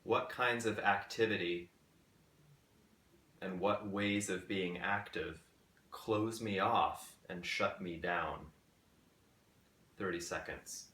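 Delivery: measured questions with long pauses between phrases; guided meditation. Acted. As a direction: pose each question gently, leaving space to reflect. Poses guided meditation questions slowly.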